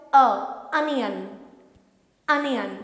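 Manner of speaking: onion starting with an a sound. Shown as a demonstration. Teacher stressing the a sound in onion. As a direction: say onion as anion. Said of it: "So we call it".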